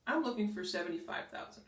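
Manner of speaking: flat, firm statement; steady falling statement; strong, confident. Shown as a demonstration. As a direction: say it like a fact. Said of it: "let's look at the strong".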